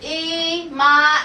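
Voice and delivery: E and ma read slowly, one syllable at a time; sounded out. Shown as a demonstration. Teacher reading the word for the class, sounded out slowly. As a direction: draw out "E", then "ma". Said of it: "I'm gonna read this".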